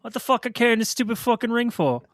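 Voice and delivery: put-on high, indignant Boston accent; Frodo. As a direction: gripe like a Boston hobbit. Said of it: "imagine if Frodo just come out of nowhere".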